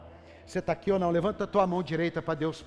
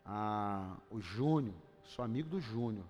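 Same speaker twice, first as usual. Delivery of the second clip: mock smug name-dropper; 3 semitones lower, 5 dB quieter than usual. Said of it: "Fala assim, ó".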